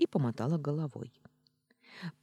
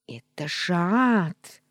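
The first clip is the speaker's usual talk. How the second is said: loud slow yell; yelling cat; 5 semitones higher, 7 dB louder, slower than usual. Acted. Talking cat yells at the heroine, loud and slow. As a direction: bellow it at her. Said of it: "заорало говорящее животное".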